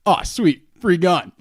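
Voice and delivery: loud high gleeful delight. Retold or imitated. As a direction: squeal it like a happy kid. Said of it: "My first reaction is".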